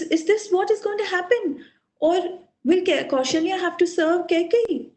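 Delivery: storyteller's distraught husband, pitch lifted; lamenting. Acted. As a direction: lament in rising desperation, lightly acted. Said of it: "he starts lamenting".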